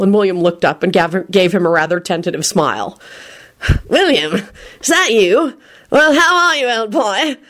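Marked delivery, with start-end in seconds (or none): 3.9-7.4 rising delighted greeting; pleased, pitched-up recognition. A narrator's reading. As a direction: greet an old friend with growing pleasure. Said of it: "Percy said delightedly".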